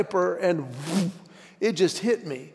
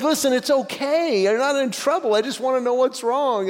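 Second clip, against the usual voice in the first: higher-pitched, coaxing reassurance; retold gentle coaxing, pitched up; reassuring dad; 5 semitones higher than usual. Dad tells daughter she's not in trouble, reassuring.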